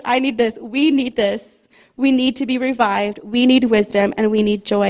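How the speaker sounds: rising preacher's emphasis; building emphasis. Real, not acted. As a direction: drive the point home, line by line. Builds the appeal to the congregation.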